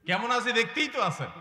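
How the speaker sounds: a mock-annoyed complaint about one's troubles; exasperated complaint. Mimicking an exasperated sufferer.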